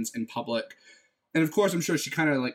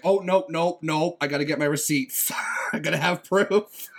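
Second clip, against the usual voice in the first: higher, louder comic insistence, breaking into a laugh; urgent mock protest; 4 semitones higher, 4 dB louder than usual. Fan stopping herself leaving before the photo, mock-urgent protest. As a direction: stop them urgently, half laughing. Retold panic over missing photo.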